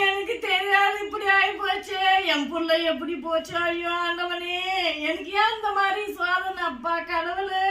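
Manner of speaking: crying out to God. Acted.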